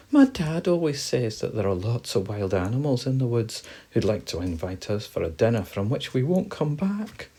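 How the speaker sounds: mildly anxious mouse voice; worried mouse. Acted. Mouse warning friends of wild animals, mildly worried. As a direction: warn with a touch of worry. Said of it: "still a little worried".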